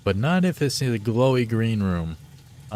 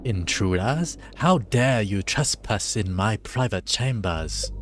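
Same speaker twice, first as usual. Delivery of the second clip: lightly voiced evil dreadlord, slow; a hint of a menacing boss; villain voice. Gamer voicing Dreadlord Zarth to the intruders, lightly villainous. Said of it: "don't know what voice I'm doing".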